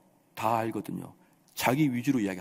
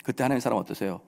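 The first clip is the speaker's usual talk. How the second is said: usual speaking voice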